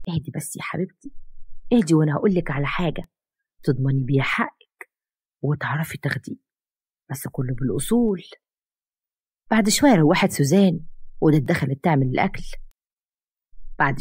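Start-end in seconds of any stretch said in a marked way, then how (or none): 0.1-8.2 soothing. Acted. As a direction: settle her down gently. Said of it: "وطبطبت عليها".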